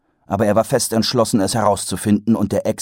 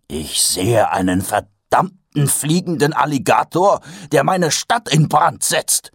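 mild call out; 7 semitones higher, 3 dB louder than usual. A narrator's reading. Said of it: "rief Mumm".

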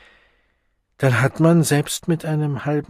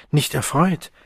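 rising, a touch higher, disbelieving; incredulous question; 4 semitones higher than usual. Acted. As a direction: echo her words back in disbelief. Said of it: "Vorwurfsvoll blickte er sie an".

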